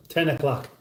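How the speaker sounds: "o'clock" lightly said as "o'clack"; mimicked o'clock. Host repeating ten o'clock to chat, mimicked pronunciation. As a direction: copy his way of ending "o'clock" in "clack". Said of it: "very difficult for me not to mimic".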